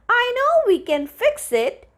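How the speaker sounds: she's sure she has the answer; excited. Acted. Molar tells the fairies her grand idea, excited. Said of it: "She sounded quite excited".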